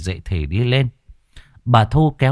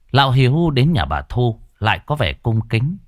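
usual speaking voice

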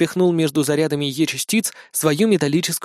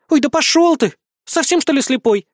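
high, loud annoyed snap; annoyed frown; 10 semitones higher, 3 dB louder than usual. Acted. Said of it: "нахмурилась она". (высоко и громко, раздражённо)

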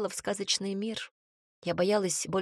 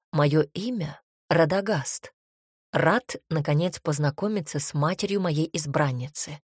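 seductive charm; 3 semitones lower than usual. Acted. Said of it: "Дракон включил режим соблазнителя".

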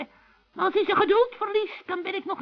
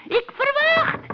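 higher, emphatic outburst; imperious command; 6 semitones higher, slower than usual. Acted. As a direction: announce it like an order. Witch begins imperious command to spirit. (gebiedende uitroep)

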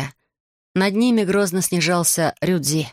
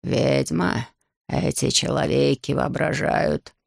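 low, slow dragon voice; a big beast talking down; menacing dragon; 4 semitones lower, slower than usual. Acted. Dragon Ryuji sneering at the girl, low and slow.

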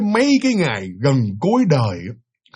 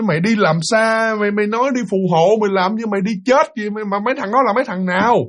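higher, raised, sharp questioning; angry worried mother; 6 semitones higher than usual. Retold or imitated. Mother angrily questioning her son about who he is leaving with. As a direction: demand answers from him.

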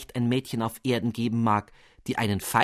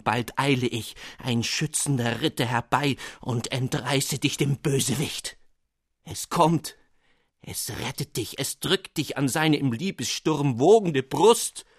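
put-on passionate young lover; 2 semitones higher than usual. Lovesick poet declaiming his letter to Anna, overwrought. Amandus's letter read in role.

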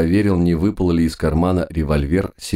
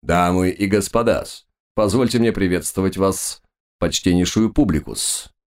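confident showman; 3 semitones higher than usual. Acted. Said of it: "держался крайне уверенно".

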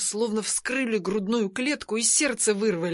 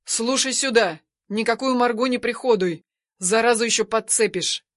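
disgusted yell. Acted. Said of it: "Брезгливо орёт".

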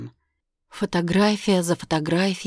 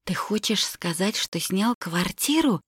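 excited exclamation; 4 semitones higher than usual. Acted. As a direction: exclaim in disbelief. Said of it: "воскликнула я".

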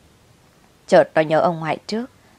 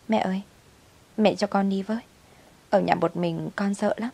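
put-on whimpering child; 3 semitones higher, 5 dB quieter than usual. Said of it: "Bé Su mếu mếu".

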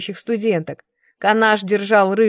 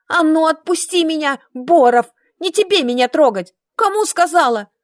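much higher, loud bossy shout; furious yell; 8 semitones higher, 4 dB louder than usual. A narrator's reading. Brunette yells at Kaltan to let her go, furious shout. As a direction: order him off her.

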